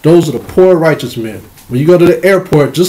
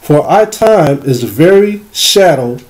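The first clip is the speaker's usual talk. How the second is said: Esau's voice; 2 semitones lower than usual. Acted. Preacher voicing Esau for the congregation, a lightly voiced solemn reading. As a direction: let Esau speak through the scripture, lightly voiced. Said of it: "This is Esau's voice".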